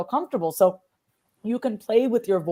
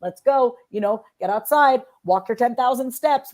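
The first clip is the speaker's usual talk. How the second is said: pushing yourself; 5 semitones higher, 4 dB louder than usual. Shown as a demonstration. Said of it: "a little bit more motivation".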